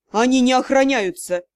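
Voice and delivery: a loud angry hiss. Acted. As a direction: hiss it through the teeth. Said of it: "прошипел вампир".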